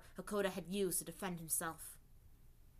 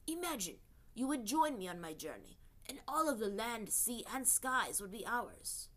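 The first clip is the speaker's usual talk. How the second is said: unearthly voice. Acted. Seryu offers the world.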